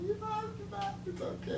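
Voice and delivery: soft whispered taunt; teasing whisper. Real, not acted. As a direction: keep whispering the tease.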